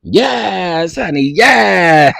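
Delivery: 1 mock host catchphrase.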